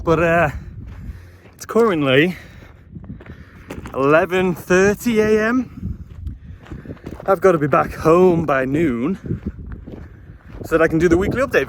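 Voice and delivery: breathless after a steep climb; panting between phrases; out of breath. Real, not acted. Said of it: "I am out of breath from that climb".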